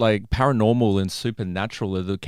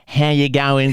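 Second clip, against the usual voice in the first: louder, higher, exaggerated Aussie greeting; Australian accent; 4 semitones higher, 7 dB louder, slower than usual. Shown as a demonstration. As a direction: show off a broad Australian accent. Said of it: "kind of accent".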